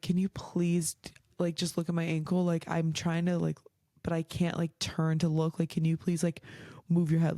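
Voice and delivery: a touch of crying in a hushed plea; retold tearful plea. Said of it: "severely crying".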